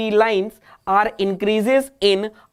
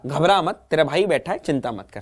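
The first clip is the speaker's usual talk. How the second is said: reassuring teacher; 5 semitones lower than usual. Retold or imitated. Teacher reassuring student in retelling.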